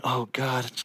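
soft, sinking groan of embarrassment; mortified aside. Retold or imitated. Pastor cringing as his convert exposes visitors, hushed dismay. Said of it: "I've got my head down going".

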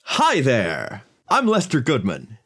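lightly voiced, grinning greeting; a hint of a big toothy grin; grinning Lester Goodman. Stranger greets Crumb with a big grin, lightly cheery. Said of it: "he gives this big grin".

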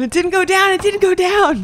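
high, disbelieving cry; can't believe it stayed up; dismayed. Real, not acted. Dismay as the goblin stays up.

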